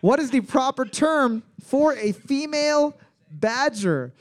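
high, shifting mock English accents; hammed-up Liverpool to London accent. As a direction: tour through English accents in one line. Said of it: "every single English accent known to mankind".

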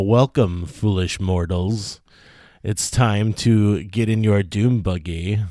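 slow, spooky haunted-house host; ghost host voice. Pretend. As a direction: drag out the welcome like a ghostly butler. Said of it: "That is a terrible, uh, ghost host voice".

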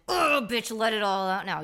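mock tough self-coaching, loud; self pep talk. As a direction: bark at yourself to let it out. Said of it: "I literally be like".

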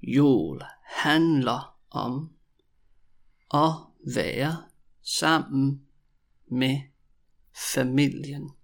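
stretched words with long pauses; very slow, word by word. Shown as a demonstration. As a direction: dictate it piece by piece. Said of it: "when I say it really slowly".

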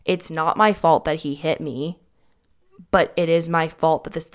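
pushing back on blame, heated; retold outrage. To her mother after being blamed, heated protest. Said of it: "I was like".

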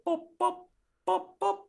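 short high boops, evenly spaced; imitated music boops. Fan mimics the music from the beginning, popping boops.

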